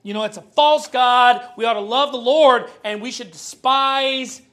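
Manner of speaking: loud, slow preaching of the quote; booming mock sermon to idol worshippers; fervent preaching. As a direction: thunder it out like a street preacher. Preacher voicing Paul's message.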